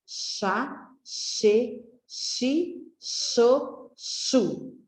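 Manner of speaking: each syllable said slowly and separately: chá, che, chi, cho, chu; syllables sounded out. Shown as a demonstration. Teacher sounding out syllables for children, slow and separate. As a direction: sound out the syllables one by one for the class. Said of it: "o som das sílabas".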